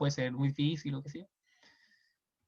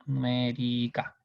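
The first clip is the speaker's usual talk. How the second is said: "Numérica" drawn out slowly while writing it; dictating "Numérica" slowly to the board; slow spelled-out word; 3 semitones lower, much slower than usual. Shown as a demonstration. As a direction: stretch out "Numérica" syllable by syllable. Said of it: "Me parece que el tilde es en la E".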